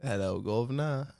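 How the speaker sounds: put-on cockney "guv'nah" greeting; jokey British accent greeting; mock British accent. Host derailing the Boston attempt, mock British accent.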